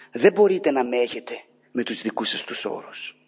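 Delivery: ordinary talk, nothing marked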